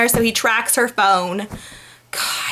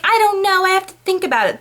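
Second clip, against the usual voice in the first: mock unsure Anna; 8 semitones higher, faster than usual. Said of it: "And she's like".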